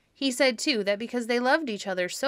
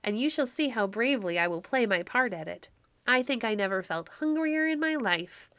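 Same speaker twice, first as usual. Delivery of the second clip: cheerful exclaiming; 2 semitones higher than usual. Acted. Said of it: "exclaimed Quicksilver, laughing".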